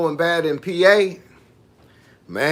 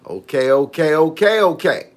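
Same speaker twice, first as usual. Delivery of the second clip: playful take on Carolina talk, building through the repeats; imitated Carolina accent; 2 semitones higher than usual. Vlogger showing viewers how Carolina folks sound, imitated Carolina accent. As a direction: mimic a Carolina accent, pitch climbing as it repeats. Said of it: "That's what it sound like".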